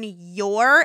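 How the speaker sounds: stress on your.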